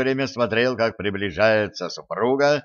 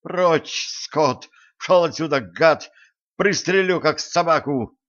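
screamed much higher, threatening with a gun; shrill shriek; 6 semitones higher than usual. A narrator's reading. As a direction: shriek the threats at her husband, pitched way up. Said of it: "завизжала". (визгливый крик, намного выше)

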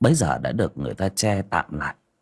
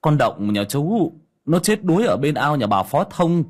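alarmed exclaiming; 5 semitones higher than usual. Acted. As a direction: blurt the terrible news, climbing higher. Neighbour breaks news of drowning. (người hàng xóm hốt hoảng báo tin dữ)

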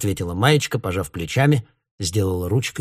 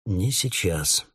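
slow, drawn-out reply; 4 dB quieter, slower than usual. A narrator's reading. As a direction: stretch each word unhurriedly. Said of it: "так же медленно сказал Гоша". (медленно, растягивая слова)

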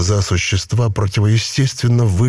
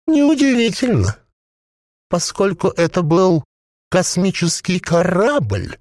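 a possessed corpse bubbling out its words; gurgling voice; 9 semitones higher than usual. A narrator's reading. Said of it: "бульканье маслянистого варева".

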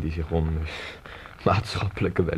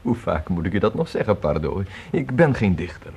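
louder, exasperated insistence; irritated; 5 dB louder than usual. Acted. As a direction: push back hard on being called a poet. Irritated correction of Pardo.

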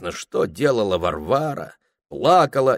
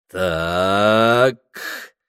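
venomous drawl; 4 dB louder than usual. A narrator's reading. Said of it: "ядовито протянул юноша".

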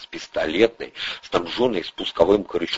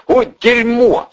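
higher, louder, slow panicked yelp; the driver panics in a dead car; panicked cry; 5 dB louder, slower than usual. Acted. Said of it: "запаниковал Андрей".

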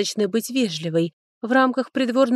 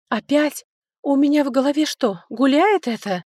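higher, louder biting sarcasm; sarcastic; 7 semitones higher, 4 dB louder than usual. A narrator's reading. Lerdes mocking her sister's warning, higher and sarcastic. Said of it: "язвительно спросила Лердес".

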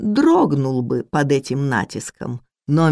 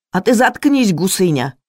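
higher, louder rude outburst; angry snap; 4 semitones higher, 4 dB louder than usual. Acted. Cook shouts down the meddling maid, higher louder angry snap. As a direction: shut her up with a sharp yell.

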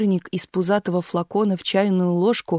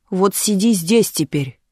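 commanding; slower than usual. A narrator's reading. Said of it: "приказала тётя Наташа".

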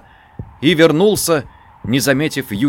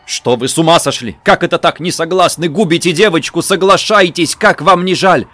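louder, urgent pleading; strange voice; 5 semitones higher, 5 dB louder than usual. A narrator's reading. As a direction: press them hard, almost shouting. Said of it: "чужим голосом вымолвил". (чужим голосом)

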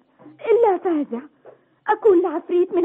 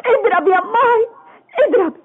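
crying dare, half laughing; defiant sobbing; 3 semitones higher than usual. Acted. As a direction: sob out the challenge. (تحدٍّ باكٍ)

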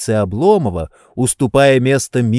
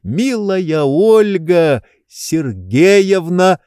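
restrained rapture; 7 semitones higher, 3 dB louder, much slower than usual. A narrator's reading. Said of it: "сдержав восторг".

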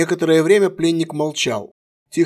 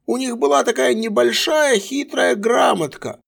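tender storytelling; 8 semitones higher than usual. A narrator's reading. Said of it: "словно рассказывая сказку любимому ребёнку".

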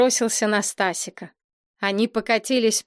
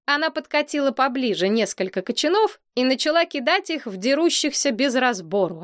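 ordinary delivery, nothing marked

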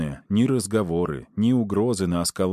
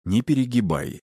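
calm tone; 4 semitones higher than usual. A narrator's reading. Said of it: "сохраняя спокойный тон".

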